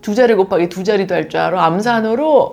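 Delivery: loud mock praise, drawn out slowly at the end; condescending coo. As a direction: coo over a little kid's cleverness as if humoring them. Adult cooing at bragging child.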